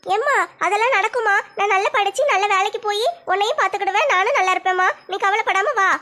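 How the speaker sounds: lightly voiced teenage daughter; a hint of a shy college girl talking to her mother; young daughter. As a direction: modest daughter, lightly played. Daughter reassures.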